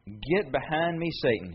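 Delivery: slow, measured rebuke; a restrained, deliberate reprimand; stern rebuke. Acted. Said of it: "he rebuked Peter".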